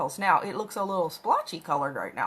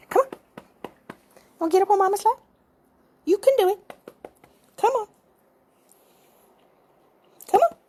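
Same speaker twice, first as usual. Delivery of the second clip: high, loud sing-song call to a cat; coaxing pet talk; 12 semitones higher, 8 dB louder, faster than usual. Real, not acted. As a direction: coax the kitty up with a bright high voice. Coaxing cat onto lap.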